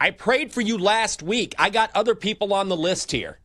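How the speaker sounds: high, loud, brushing off a caller; impatient boss on the line; dismissive busy Pope. Pretend.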